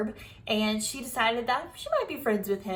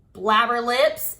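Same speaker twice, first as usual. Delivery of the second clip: louder, slow drawn-out yell; 8 dB louder, slower than usual. Acted. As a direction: yell the insult at her. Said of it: "I yelled".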